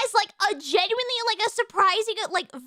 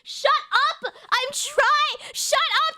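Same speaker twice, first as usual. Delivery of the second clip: high, heated mock-angry protest; exasperated outburst; 7 semitones higher than usual. Real, not acted. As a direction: snap back at the teasing, pitch jumping up. Arguing back at interruptions over British accents.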